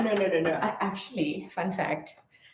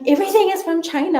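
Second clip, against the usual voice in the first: mimicking husband; 12 semitones higher, 5 dB louder, faster than usual. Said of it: "He's like".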